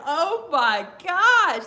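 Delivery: very slow, loud and high; high excited oh my gosh. Real, not acted. Fan still thrilled by the promo, a drawn-out high gasp. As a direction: drag out the amazement. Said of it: "He had me laughing".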